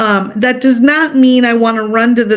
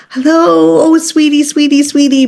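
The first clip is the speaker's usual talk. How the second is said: very high voice; 4 semitones higher than usual. Shown as a demonstration. Owner greeting the dog, mock high-pitched gushing. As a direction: gush at the pet in a high coo. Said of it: "but it's very high".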